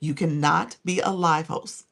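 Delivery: slow, stressed warning that you cannot be a live host; firm emphatic statement. Real, not acted. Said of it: "I say this very emphatically".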